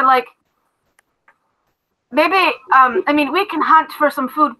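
a hint of a hearty captain giving orders; dwarf captain thanking his recruit, lightly voiced; Everard the dwarf captain.

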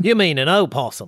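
put-on easygoing Australian accent; Aussie accent. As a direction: correct them in an Aussie accent. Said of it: "it's your Aussie accent".

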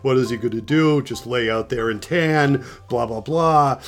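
lightly mocked grumbling; a touch of mock griping; complaining. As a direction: imitate petty complainers, rattling off objections. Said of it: "then everybody started complaining".

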